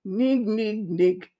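put-on spelt-out lion laugh; lion's laugh. A narrator's reading. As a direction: chuckle as the lion king. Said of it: "laughed the lion".

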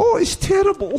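high mock Russian lament; hammed-up Russian footballer moaning; exaggerated Russian accent, mock despair; Arshavin impression. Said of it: "I could do Arshavin".

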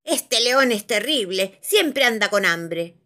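slow, loud mildly cross wizard; a bit annoyed. Acted. Wizard mildly annoyed at the hungry dragon. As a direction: grumble lightly about the dragon. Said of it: "dijo el mago algo enojado".

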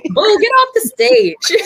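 playful booing, high and loud; loud drunk heckling. Pretend. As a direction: boo him off the stage, slowly. Mock heckling the host.

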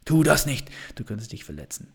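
lightly voiced doubting inner voice holding you back; destructive inner voice. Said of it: "die destruktive Stimme". (leise, warnende destruktive Stimme, nur angedeutet)

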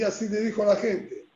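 ordinary talk, nothing marked

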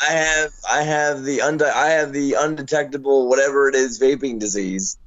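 hoarse and scratchy; smoker's rasp. Real, not acted. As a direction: talk through a rough, tired throat. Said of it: "I don't know what's happening to my voice".

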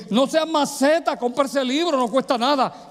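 high-pitched teasing insistence; nagging friends. Retold or imitated. Puerto Rican friends telling him to buy the book, nagging. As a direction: imitate pals pushing you to buy it. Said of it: "y me dijeron, puertorriqueños al fin".

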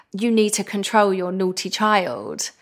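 slow, snooty reprimand, retold. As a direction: imitate a haughty passenger telling off a parent. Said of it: "looked up from her book really snooty, and it's just the way she said it as well".

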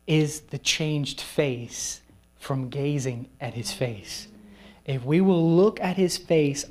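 slow, weighty sermon delivery; deliberate pulpit emphasis; slow preaching. Acted. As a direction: lay each phrase down with weight. Preacher drives home the point.

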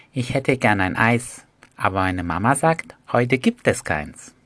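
lightly voiced little girl asking for ice cream; a hint of a pleading little girl. Shown as a demonstration. Teacher showing a little girl voice. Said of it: "Ihr könnt das kleine Mädchen darstellen".

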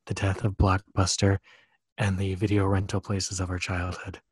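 somber low announcer voice; deep mock-serious intro voice. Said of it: "talking in that low voice again".

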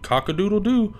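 high crowing; rooster crow. Acted. Imitating a rooster.

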